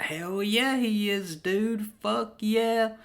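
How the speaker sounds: high-pitched, hyped-up agreement; enthusiastic agreement. Retold or imitated. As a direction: agree eagerly, pitched well up. Acting out his enthusiastic agreement.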